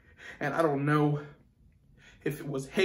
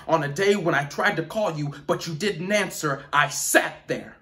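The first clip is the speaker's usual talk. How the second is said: rising resentment; 2 semitones higher, 6 dB louder than usual. Acted. Monologue turns to anger at father.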